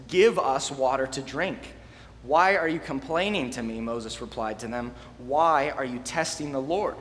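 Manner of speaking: measured Bible reading to the group; scripture reading. Acted. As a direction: read the passage steadily, like a lesson. Reads scripture aloud to group.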